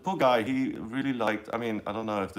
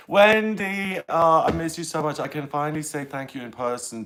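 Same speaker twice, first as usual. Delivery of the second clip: much higher, louder delighted hello; excited greeting; 7 semitones higher, 8 dB louder than usual. Real, not acted. Greeting a viewer she misses, excited and loud.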